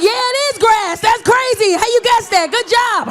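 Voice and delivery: high, sarcastic fake encouragement; mock praise. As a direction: gush over the obvious guess like a bored parent. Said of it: "I'm like".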